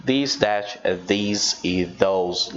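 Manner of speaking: this, that, these e those, these and those drawn out slowly; teacher recap drill; careful demo pronunciation. Shown as a demonstration. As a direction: lay out the four words slowly. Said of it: "exagerando na pronúncia".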